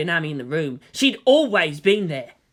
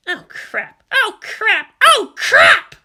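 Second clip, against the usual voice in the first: building panic; 14 semitones higher, 8 dB louder, much slower than usual. Acted. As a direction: panic more with every repeat. Panic as they're left behind.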